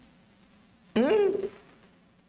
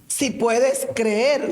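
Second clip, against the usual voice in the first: slow Jesus; 2 semitones lower, much slower than usual. Acted. Jesus' words again.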